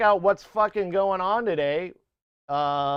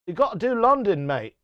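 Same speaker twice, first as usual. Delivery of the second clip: put-on London accent; 4 semitones higher than usual. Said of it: "he is from London".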